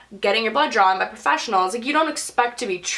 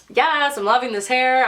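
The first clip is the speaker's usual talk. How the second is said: acting out mild hair excitement; happily pumped, lightly acted; excited; 2 semitones higher than usual. Retelling delight at the new teal hair, excited. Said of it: "all excited about it".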